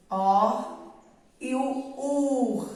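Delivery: "er", "ir", "or", "ur" each ending in a throaty scraping R; isolated vowel plus raspy R; syllable-final R. Shown as a demonstration. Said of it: "depois eu ponho o R no final".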